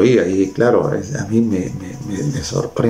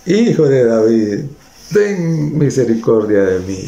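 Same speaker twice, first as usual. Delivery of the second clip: harder acted call, only partly raised; mild insistent cry. Blind man crying over the crowd's objections, mild insistent cry. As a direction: push the plea out, short of shouting. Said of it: "Más duro gritaba".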